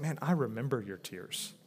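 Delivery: quiet, low and sincere; understated reassurance. Acted. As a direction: gently let them know you remember. Voicing Paul to tearful Timothy.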